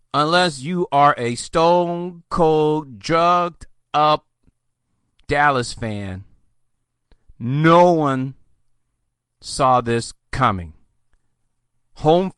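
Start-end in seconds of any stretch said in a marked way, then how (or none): 0.1-10.7 slow, phrase by phrase; emphatic. Real, not acted. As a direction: lay it out slowly with pauses. Emphatic point about Dallas.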